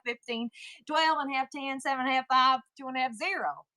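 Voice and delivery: rapid countdown with a Southern accent. Shown as a demonstration. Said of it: "We're gonna try to do it Southern".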